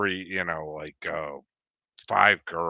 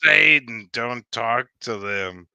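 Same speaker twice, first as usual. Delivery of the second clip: grandfather; 3 semitones higher, 8 dB louder than usual. Retold or imitated. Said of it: "He goes".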